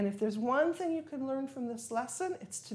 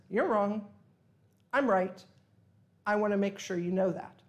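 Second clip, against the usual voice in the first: louder, emphatic self-assertion; emphatic insistence; 5 dB louder than usual. Acted. Man insisting his opinion is correct, emphatic. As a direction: hammer it home as someone sure of being right. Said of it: "He wanted to emphasize that his opinion was correct".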